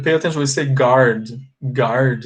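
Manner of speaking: guard said as gard, with the u left silent; model pronunciation. Shown as a demonstration. Teacher showing students how to say guard. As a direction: say guard with no u sound. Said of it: "A letra U não é pronunciada".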